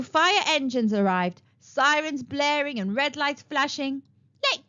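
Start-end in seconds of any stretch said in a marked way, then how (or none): 4.4-4.6 much higher, louder shriek. A narrator's reading. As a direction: shriek at the firefighters. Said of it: "shrieked Princess Reverie".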